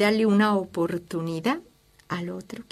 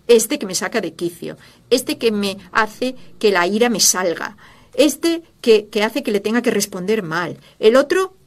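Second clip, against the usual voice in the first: exasperated rant; 7 dB louder than usual. Retold or imitated. Complaining angrily about others.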